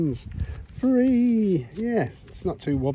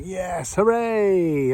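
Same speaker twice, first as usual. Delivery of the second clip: imitated excitement; much slower than usual. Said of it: "I was all excited. I was like".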